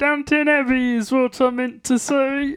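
plummy upper-class frog puppet voice; a frog puppet speaking like English gentry; posh Kermit voice. Pretend. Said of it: "practice my Posh Kermit".

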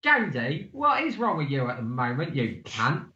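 lightly put-on Cockney grumble; amateur Cockney impression; Cockney accent. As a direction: read it as a mock Cockney complaint. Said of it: "And then Apples comes back in".

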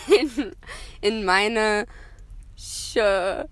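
"in meiner Schuhe" said haltingly, word by word; halting, careful German "in meiner Schuhe"; careful German pronunciation. Shown as a demonstration. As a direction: pause before a drawn-out "Schuhe". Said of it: "That's how you say shoe".

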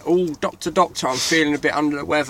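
high, soft whiny patient voice; sickly patient. Pretend. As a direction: moan it like a poorly patient. Patient line repeated.

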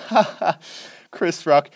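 lightly voiced chuckling wife sharing a funny mistake; Adam Sandler's wife. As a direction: retell her cheery patter with a mock laugh up front. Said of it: "the wife of Adam Sandler comes on".

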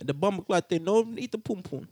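put-on lilting, rough-and-ready Jamaican accent; bad Jamaican accent. Joking that Jamaican men don't eat it, bad Jamaican accent. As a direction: attempt a comic Jamaican accent. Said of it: "It's a bad Jamaican accent".

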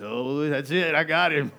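loud, high mock triumph; hammed-up gotcha; playful God voice. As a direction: exclaim like God landing a catch. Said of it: "it's as if God goes".

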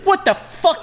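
high incredulous voice through laughter; laughing clerk impression. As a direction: squeal it out in disbelief, laughing. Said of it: "He's like".

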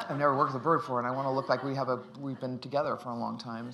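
laughing through words. Real, not acted. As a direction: keep laughing as you speak. Laughing while retelling.

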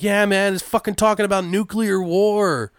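high-pitched excited call from behind; hammed-up background voice on a phone call; guy in background. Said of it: "you hear the guy in the background".

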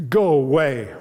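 a hint of a whining old father; the father whines at Joseph through the door; piteous whine. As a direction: whimper it out to send him off. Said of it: "Joachim's voice whining piteously".

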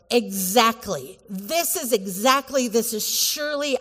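EXACTLY and SURELY hit firmly; exclamatory emphasis. Shown as a demonstration. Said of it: "with exclamation point".

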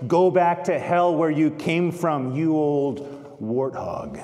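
a touch of a stern, resonant rebuke, slowing at the end; lightly acted young girl pronouncing judgment. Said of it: "says in a resonant voice".

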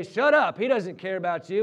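acted-out scolding from the crowd. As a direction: shut him down like an annoyed onlooker. Crowd silencing the beggar.

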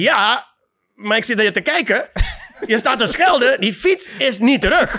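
laughing through the words; calmly amused, laughing at the friend; laughing reply. Retold or imitated. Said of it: "Ik zeg".

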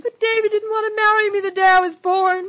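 high, loud wail of despair; tragic. Acted. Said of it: "don't be so tragic about it".

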